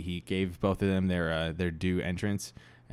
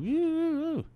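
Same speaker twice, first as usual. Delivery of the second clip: crowd-hyping wrestler. Retold or imitated. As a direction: whoop it up for the crowd. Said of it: "They get to be like".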